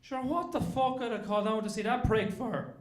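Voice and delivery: put-on a grumbling old Irish local; old Irish man voice. Opening bit, old Irishman voice.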